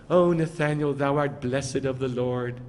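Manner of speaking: lightly solemn parody of scripture; mock pious. Preacher parodying a reverent Yeshua to Nathanael, mock pious. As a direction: intone it like old-fashioned holy writ. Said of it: "He's not going".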